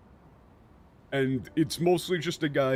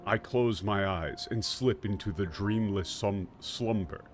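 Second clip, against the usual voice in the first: lower, grave podcast-narrator reading; a light Dan Carlin take, lower and serious; 4 semitones lower than usual. Acted. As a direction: intone it like a solemn history storyteller. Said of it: "in a Dan Carlin voice".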